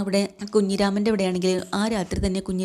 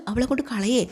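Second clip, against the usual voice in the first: അവളെ കൊണ്ട് കളയേ thrown back higher, with a rise on കൊണ്ട്; indignant echo; 4 semitones higher than usual. Acted. Mother throws her daughter's words back at her, indignant.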